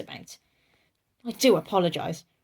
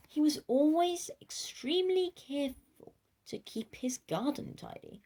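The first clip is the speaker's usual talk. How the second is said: hushed, secretive whisper; 8 semitones higher, 5 dB quieter than usual. A narrator's reading. Narrator whispering the big but to young listeners.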